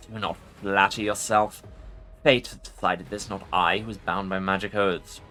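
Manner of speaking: low growling lich; growling undead king. Acted. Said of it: "A low growl escapes the Lich".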